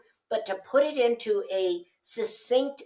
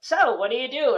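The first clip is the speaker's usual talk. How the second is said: "So what do you do?" asked louder, a touch higher, like a host at the mic; onstage coach question; 3 semitones higher, 4 dB louder than usual. Retold or imitated. Coach on stage asking the audience member at the mic, brisk and loud. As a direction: call it out to the line at the mic. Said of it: "I'm like".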